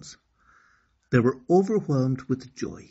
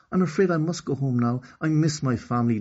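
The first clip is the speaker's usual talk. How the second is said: Okani; 5 semitones higher, 3 dB louder, faster than usual. Acted. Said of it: "declared Okani to Queen Crocodile".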